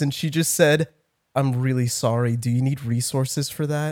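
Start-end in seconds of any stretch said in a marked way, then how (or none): 1.3-3.9 put-on softer, gently concerned old nurse; sympathetic nurse. Nurse answering his depression joke, soft and concerned. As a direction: lightly voice a kind nurse, softly. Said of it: "she had really sad eyes".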